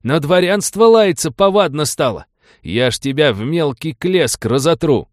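insulted noble threatening the peasant in fury; furious threat. A narrator's reading. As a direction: roar the threat at him.

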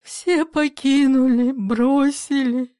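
slow, drawn-out lament; a mother lamenting, slow, a touch of a wail. Acted. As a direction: wail it, mild and dragging. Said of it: "Акулина Ивановна воет".

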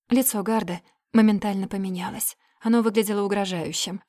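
ordinary delivery, nothing marked

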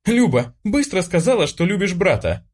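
high, pressing hiss at her sister; girl hissing a threat at her sister, high and insistent; hissing demand. Acted. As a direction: hiss the order through the teeth. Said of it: "зашипела на неё Катя".

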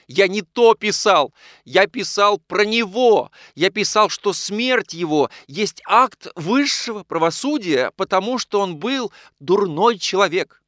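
loud, high, slow indignant outburst; heated protest. A narrator's reading. Nikolai defends his article to Anna, loud indignant outburst. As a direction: hammer each phrase in anger.

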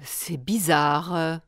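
low, soft, slow murmur to herself; queen wondering alone over the sword. A narrator's reading. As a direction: puzzle it out under the breath. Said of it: "se dit-elle".

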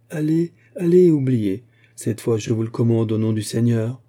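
commanding, rising to a strong call; ordre solennel. A narrator's reading. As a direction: dismiss the crowd with authority. Aramis ordering the crowd away. (ordre solennel, d'une voix forte)

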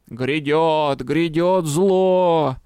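slow, drawn-out crone wail; old crone yelling. A narrator's reading. Village crone crying doom to the crowd, slow wail. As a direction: croak it out like a doom-crying hag. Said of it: "продолжала орать старуха".

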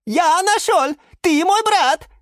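high, loud excited little plant; Sushil character voice. A narrator's reading. Sushil greets his found brother, high and excited. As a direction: cry out with joy at finding family.

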